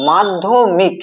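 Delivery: মাধ্যমিক drawn out as মাধ, ধ্য, মিক; syllable by syllable. Shown as a demonstration. Teacher quizzes students on syllable count, মাধ্যমিক said in separated syllables. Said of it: "বল তো এখানে কটা অক্ষর আছে?".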